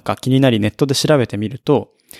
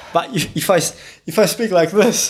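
higher, slow, shallow voice from the chest; chest breathing voice; 5 semitones higher, slower than usual. Shown as a demonstration. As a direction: lift the breath up into the chest and speak slowly. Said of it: "it's 胸式 speaking".

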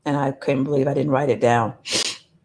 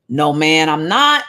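retort; 5 dB louder, slower than usual. Acted. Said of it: "Peter retorted".

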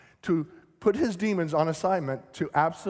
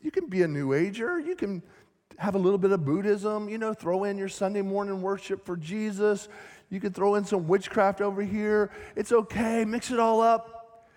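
mock worldly voice; 3 semitones higher than usual. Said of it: "they're telling you".

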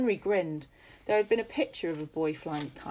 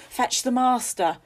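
loud, higher urgent shout; 7 semitones higher, 8 dB louder than usual. Acted. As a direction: call for help in a hurry. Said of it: "Farrow shouted".

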